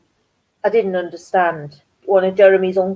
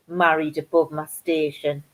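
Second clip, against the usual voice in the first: low, quiet disbelieving repeat; indignant echo; 3 semitones lower, 6 dB quieter than usual. Retold or imitated. Woman echoing a man's jibe about her marriage, indignant. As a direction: repeat it under your breath, pitched down.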